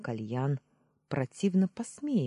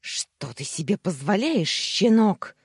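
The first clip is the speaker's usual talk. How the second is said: loud, indignant yell rising on the insult; outraged squawk; 6 semitones higher, 7 dB louder than usual. A narrator's reading. Uncle scolding his insolent nephew, outraged squawk. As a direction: build to an outraged shout. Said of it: "заверещал Дамир".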